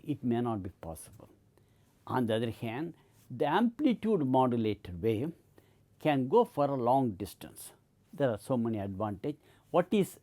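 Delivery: ordinary talk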